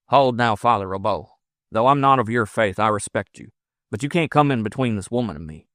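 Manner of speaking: lightly voiced resolute frontiersman; defiant frontiersman. Lover holding off the priest, lightly voiced defiance. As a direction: stand your ground, firm but civil.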